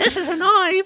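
very high put-on granny voice. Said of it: "That's a perfect Edith impression".

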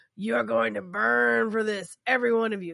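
ominous, menacing tone. Retelling a condemned man's last words: ominous. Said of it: "he's very ominously saying".

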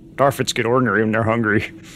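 put-on deadpan delivery. Retelling a scene, quoting what one character says; retelling a deadpan line. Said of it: "completely deadpan goes".

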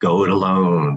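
voice dropped an octave, low and almost creepy. Demonstrating how to make an option sound distasteful, dropped low, creepy voice. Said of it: "I drop my voice down an octave, and I make it sound almost creepy".

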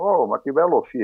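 put-on Uruguayan accent. Retelling what your future cycling coach said on seeing you, in Timon's Uruguayan portunhol accent. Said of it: "aquele portunhol".

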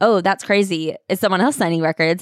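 usual speaking voice

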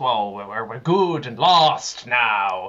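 slow, drawling, put-on pirate accent. Quoting a line from a film: pirate accent. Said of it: "from your pirate accent".

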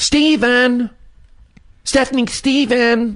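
mock high-pitched yelling. Answering what his mom would yell: imitating mom's high-pitched yelling. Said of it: "her high-pitched voice".

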